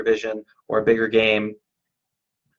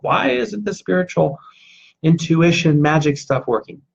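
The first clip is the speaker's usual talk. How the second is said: higher-pitched, exasperated mock whine; mock frustrated complaint; 4 semitones higher, 4 dB louder than usual. Speaker voicing people let down by spirituality, mock frustrated. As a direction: act out a fed-up protest, pitched up at the start.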